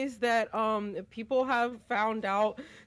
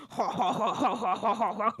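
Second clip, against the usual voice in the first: imitating TTS voice; 4 semitones lower than usual. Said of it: "the TTS read it out as".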